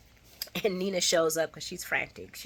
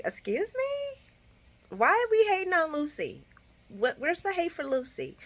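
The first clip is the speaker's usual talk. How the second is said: indignant excuse me; 12 semitones higher than usual. Real, not acted. Vlogger to her viewers, defending Lucy: high indignant disbelief. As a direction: act offended that anyone would blame her.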